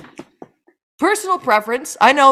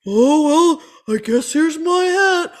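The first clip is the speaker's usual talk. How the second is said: slow clueless traveler; 5 semitones higher than usual. Retold or imitated. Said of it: "slowly like".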